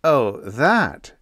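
gentle smile. A narrator's reading. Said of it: "smiled Biggs gently".

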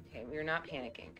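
low, quick and hushed; calm yourself down under your breath; quiet self-reassurance. Real, not acted. Streamer steadying herself after a scare, hushed self-reassurance.

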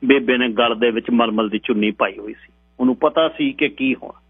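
ordinary delivery, nothing marked

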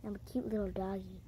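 cartoon dog. Cooing as a dog.

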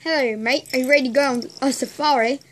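put-on Australian accent; lightly voiced Australian safari guide. Friend inviting a mate on safari, Australian accent. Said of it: "I can do Australian".

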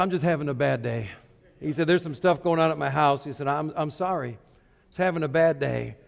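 low, soft, subdued apology; lightly voiced man, sorry and deflated; a hint of a tired driver saying sorry; quiet apology.

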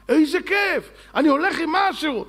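high-pitched enthusiastic exclamation; acted delight. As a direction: exclaim it like a thrilled student.

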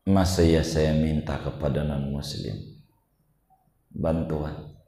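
soft, low talking to oneself; imitated inner monologue. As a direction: voice a private thought quietly. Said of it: "Dia ngomong dalam dirinya". (menirukan gumaman pelan dalam hati)

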